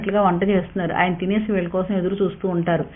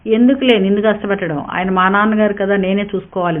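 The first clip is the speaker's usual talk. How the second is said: reproachful; 3 dB louder than usual. Acted. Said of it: "నిష్ఠూరంగా అన్నాడు వినీల్".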